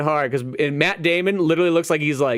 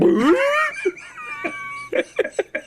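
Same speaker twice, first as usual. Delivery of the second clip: horse noise. Retold or imitated. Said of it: "like, the horse from".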